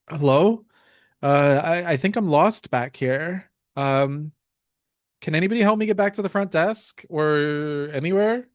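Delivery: a touch of timid fear, calling out uncertainly; young, scared voice. Acted. Lost hotel guest calling for help, mildly scared young voice. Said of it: "scared voice going".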